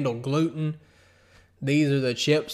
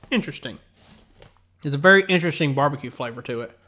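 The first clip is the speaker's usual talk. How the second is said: crunching chips; much faster than usual. Real, not acted. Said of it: "I apologize if you can hear me crunch".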